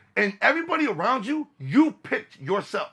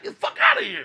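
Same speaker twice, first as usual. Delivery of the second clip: much higher squeaky mock voice; faster than usual. Band member mocking the bus driver in a squeaky voice. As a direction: toss it off in a silly squeaky voice. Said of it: "Just 'cause you're driving".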